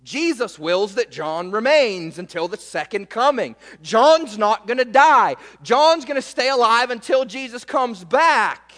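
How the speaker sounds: mock-excited rumor, rising in pitch and volume; imitating believers passing on big news. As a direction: spread the news loudly, building to the last word. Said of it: "And the saying went out".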